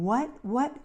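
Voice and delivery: retold impatient double question; imitated frustration. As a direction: repeat it like a frustrated caregiver. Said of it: "and frustrated".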